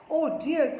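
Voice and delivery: high little cry of dismay. A narrator's reading. Neetu as grandpa's car arrives, dismayed cry. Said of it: "cried Neetu".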